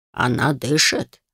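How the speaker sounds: put-on low, slow worried old man; an old man asking anxiously; встревоженный старик. A narrator's reading. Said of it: "В голосе старика прозвучало беспокойство". (встревоженный старческий голос, медленно)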